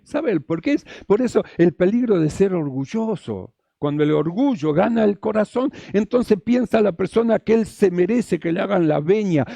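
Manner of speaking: ordinary talk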